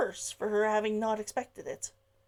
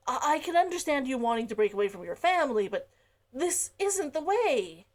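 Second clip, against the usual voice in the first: gentle, supportive; 3 semitones higher than usual. Acted. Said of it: "His tone was gentle, supportive".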